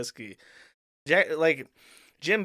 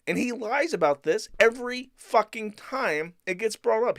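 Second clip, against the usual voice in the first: rising angry rant; 4 semitones higher than usual. Real, not acted. Ranting at a cohost about his lies, angry and building. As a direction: vent the anger at his lies, pushing up.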